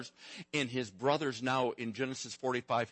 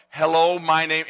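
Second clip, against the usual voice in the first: put-on toddler greeting; 4 semitones higher, 10 dB louder than usual. Shown as a demonstration. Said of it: "Say it that way".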